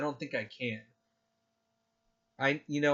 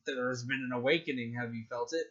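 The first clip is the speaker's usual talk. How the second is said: trailer narrator voice; 5 dB quieter than usual. Retold or imitated. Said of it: "it's the one where it's like".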